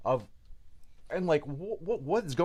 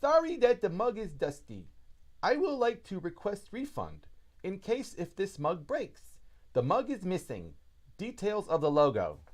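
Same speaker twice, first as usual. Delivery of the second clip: reading the note; 6 semitones higher than usual. Retold or imitated.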